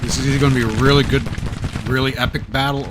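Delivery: fast, high, hyped-up; excited. Real, not acted. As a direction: rush it out with excitement. Hyped about battle.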